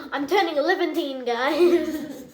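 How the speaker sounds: giggling through a joke; laughing as she says it. Pretend. Joking claim, laughing.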